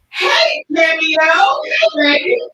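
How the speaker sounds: loud, high call to a guest who just joined; hey, welcome the friend in, calling out loud; excited greeting. Real, not acted. Host greeting a newly joined guest, loud and excited.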